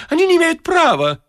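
high outraged cry; indignant protest. A narrator's reading. The wit protesting the seizure, high and indignant. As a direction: protest loudly.

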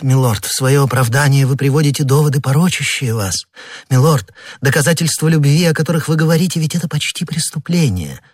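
a queen gently scolding her admirer; Queen Anne's voice. A narrator's reading. Narrator voices Queen Anne. (более высокий голос королевы, с упрёком)

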